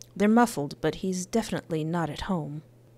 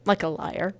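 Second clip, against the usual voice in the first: Mulaney joke. Retold or imitated. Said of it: "John Mulaney who did that".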